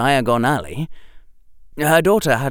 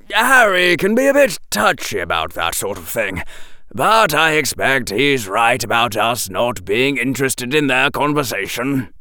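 gently excusing his son; lightly voiced fond father. Father speaks fondly of son.

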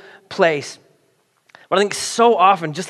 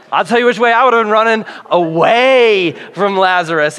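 laughing; 3 semitones higher, 4 dB louder than usual. Retold or imitated. Watching the mummy hop out.

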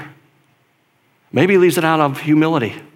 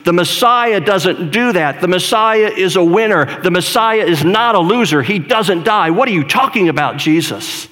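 angry rebuke; 4 semitones higher than usual. Retold or imitated. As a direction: scold him with raised voice and some anger. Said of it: "I picture some volume to his voice".

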